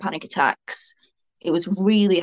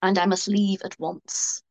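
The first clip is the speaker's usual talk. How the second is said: imitating a posh, overly polite Brit; mock-posh apology, slowing at the end; hammed-up upper-class politeness. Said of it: "said in a really posh voice".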